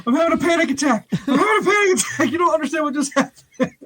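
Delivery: high, panicky mock freak-out; frantic retold panic call. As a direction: act out a panic attack, laughing through it. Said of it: "freaking out".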